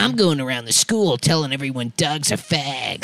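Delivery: deep, low bully voice; Roger voice. Pretend. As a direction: growl it like a cartoon bully. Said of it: "Oh, is that Roger?".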